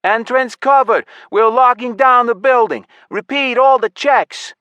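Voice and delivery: loud, high military orders; shouted commands. A narrator's reading. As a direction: shout orders over a signal channel. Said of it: "A gaggle of commands filled the hall".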